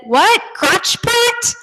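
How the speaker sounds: put-on a touch of a confused kid. Kid mishearing crock pot.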